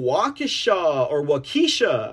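"Waukesha" first as WAH-kuh-shah, then as WAH-kee-shuh; unsure which "Waukesha" is right; two ways to say Waukesha. Shown as a demonstration. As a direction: try both versions of "Waukesha". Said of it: "how you say that?".

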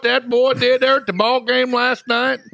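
high, loud mock gossip of an angry townsman; outraged local. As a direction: ham up a scandalized small-town busybody.

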